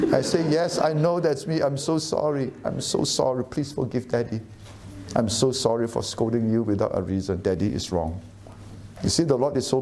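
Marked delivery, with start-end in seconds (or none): 0.5-8.2 retold apology. Father's retold apology to crying daughter.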